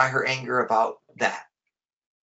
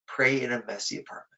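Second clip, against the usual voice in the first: calm advice; 2 semitones lower than usual. Retold or imitated. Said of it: "he said".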